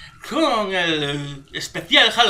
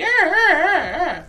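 imitating her shouting; 9 semitones higher, slower than usual. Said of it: "la tía está pegando voces ahí".

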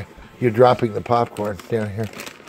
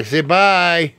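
calling out; 3 semitones higher, 6 dB louder than usual. Real, not acted. Prompting baby to wave bye.

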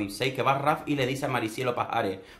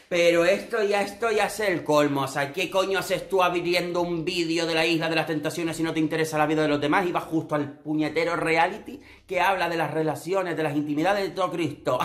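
exasperated rant; 3 semitones higher than usual. Real, not acted. Ranting at a hater comment.

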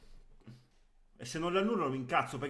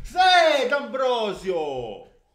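high, loud cheer, drawn out; excited shout; 7 semitones higher, 9 dB louder, much slower than usual. Real, not acted. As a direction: cheer the defender. Celebrating a chance.

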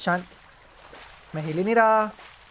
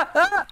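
high, sudden startled cry; startled yelp; 11 semitones higher than usual. Real, not acted. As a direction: jump at the scare. Sudden scare in-game. (अचानक डरकर चीख)

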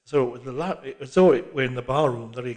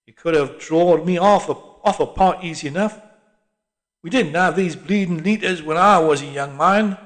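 put-on aggrieved old Londoner; old man griping at barman; grumbling old cockney; 4 semitones higher, 8 dB louder than usual. A narrator's reading.

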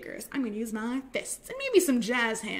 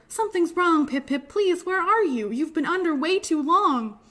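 alarmed mother calling out, louder and higher; worried cry; 5 semitones higher, 4 dB louder than usual. Acted. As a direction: call out urgently for a missing child. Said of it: "Then she cried out".

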